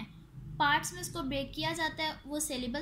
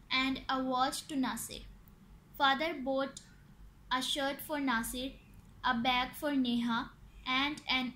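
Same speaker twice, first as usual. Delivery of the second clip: slow, measured textbook reading; teacher reading an exercise aloud slowly; much slower than usual. Acted. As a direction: read it out slowly, phrase by phrase.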